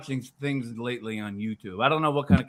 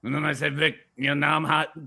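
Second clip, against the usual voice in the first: a hint of rumbling in the voice; lightly put-on impression, stretch the name; Alex Jones. Complaining to Vic that nobody buys, lightly rumbling impression. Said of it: "it's a hard voice to do".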